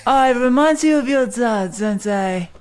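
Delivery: mock spy seductress. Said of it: "Mission Impossible style".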